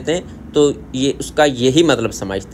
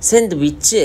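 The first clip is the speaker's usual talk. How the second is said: Korean accent; 3 semitones higher, slower than usual. Shown as a demonstration. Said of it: "ये उनके लहजे में सैंडविच इस तरह बोलते हैं".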